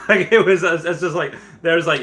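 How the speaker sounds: can't stop laughing. Real, not acted. Recalling the hype to viewers, laughing.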